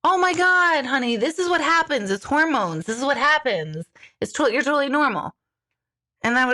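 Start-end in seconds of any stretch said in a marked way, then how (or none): 0.0-5.4 emphatic, higher-pitched mock reassurance; imagined reassuring nurse. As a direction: play the nurse who rushes to reassure. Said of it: "You should have been like".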